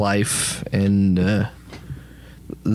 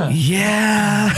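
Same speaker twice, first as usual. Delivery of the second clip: sheepish god; 10 semitones higher, 3 dB louder than usual. Acted. God's sheepish answer.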